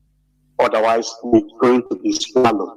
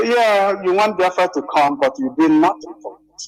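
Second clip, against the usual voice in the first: mocking quote; 6 semitones higher than usual. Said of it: "This is not the time you say".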